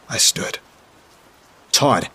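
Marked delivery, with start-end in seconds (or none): 1.7-2.1 mild yell, pitched up; a restrained narrated shout, higher with a falling end; yelled call. A narrator's reading. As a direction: call out the name to get attention. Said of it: "I yelled".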